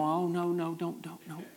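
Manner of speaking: a hint of a worried onlooker begging no; fretting saints in heaven. Saints peering down from heaven, lightly mimed as fretful. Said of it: "they're peering over and going".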